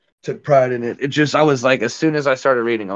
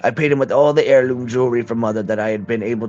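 put-on old lady voice. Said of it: "How'd y'all like my old lady voice?".

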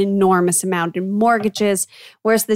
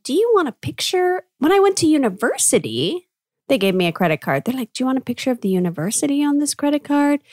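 mock salesperson voice; 4 semitones higher than usual. Mimicking bank offering card pictures.

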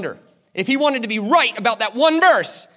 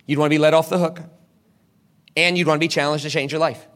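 normal talking voice

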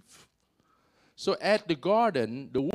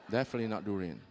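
said through a laugh, softer; 3 semitones lower, 6 dB quieter, much faster than usual. Real, not acted. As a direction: chuckle as you repeat it.

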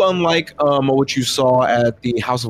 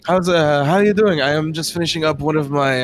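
lightly voiced blacksmith, higher pitched greeting; friendly blacksmith Sienna; 5 semitones higher than usual. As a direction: greet the visitors a little higher, as the gnome smith.

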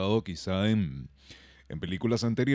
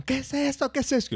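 squeaky question. Retold or imitated. Voicing a character in the film.

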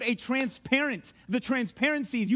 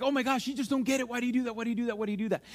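quick, softer mock complaint; exasperated rush; 4 dB quieter, much faster than usual. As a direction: rattle off the repeated question, tailing softer. Acting out frustration at someone.

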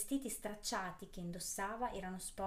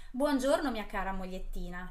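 fake politeness; 6 dB louder than usual. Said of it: "fingendosi cortese".

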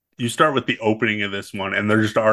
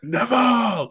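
high, hammed-up triumphant cry; mock triumphant; 13 semitones higher than usual. Imitating the villain answering Kevin, hammed-up triumph. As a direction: ring it out like an overacting villain.

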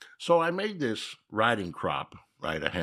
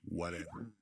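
offhand defiance; 2 semitones lower, 11 dB quieter than usual. Retold or imitated. Defiant reply retold to teacher.

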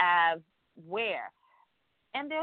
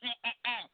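short repeated "ah" bursts imitating bickering; bitchy mock yapping; 4 semitones higher, 5 dB quieter, much faster than usual. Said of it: "all bitchy and shit".

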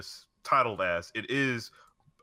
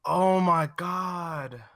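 excited anime fan; 8 semitones higher, slower than usual. Real, not acted. Gushing over a dream anime character.

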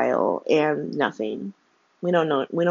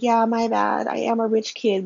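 higher, sheepish mock confession; mock sheepish Drew; 6 semitones higher than usual. Mocking Drew owning up to the boss, higher and sheepish. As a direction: shrug it off like a guilty kid. Mocking Drew's lame excuse.

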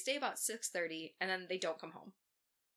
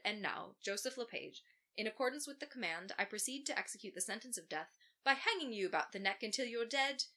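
put-on British accent. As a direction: read the death sentence in a British accent. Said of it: "very specifically in a British accent".

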